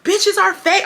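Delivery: high-pitched retold scream, drawn out; slow, high mock yell. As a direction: imitate a friend screaming accusations, without full volume. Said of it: "she's screaming".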